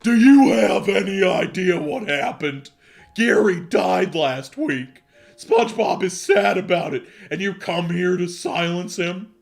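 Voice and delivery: yelling Patrick. Acted. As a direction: bellow it at the intruder in character. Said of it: "got up and yelled at Squidward".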